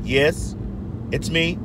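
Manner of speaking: low put-on white phone voice; mock-proper white man on the phone; Timothy Jenner. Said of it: "Timothy Jenner white voice".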